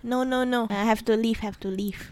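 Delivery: high, fussy elder nagging; nagging auntie. Retold or imitated. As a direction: scold like a worried auntie. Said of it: "They will be like".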